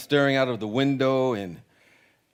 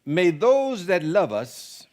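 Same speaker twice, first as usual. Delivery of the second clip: slow, raised, solemn reciting of the opening line; solemn recitation; 5 semitones higher, 5 dB louder, much slower than usual. Acted. Pastor reciting the Irish curse to the congregation, slow and solemn. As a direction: intone it slowly like an old blessing. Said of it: "here's the old Irish curse".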